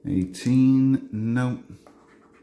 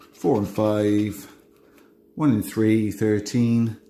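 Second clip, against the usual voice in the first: bingo caller; slower than usual. Acted. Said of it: "I start doing my bingo calls".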